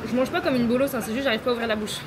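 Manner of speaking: barely opening the mouth, sore jaw; after wisdom teeth. Real, not acted. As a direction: talk with a stiff, aching jaw. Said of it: "J'ai tellement mal aux dents". (après les dents de sagesse, bouche à peine ouverte)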